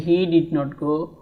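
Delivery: very slow, each word spaced out; slow classroom model sentence; slow drill. Shown as a demonstration. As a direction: say it word by word for learners. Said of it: "அவன் போகவில்லை".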